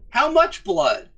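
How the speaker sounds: high, slow, alarmed question; pressing for how bad it is. Alarmed at news.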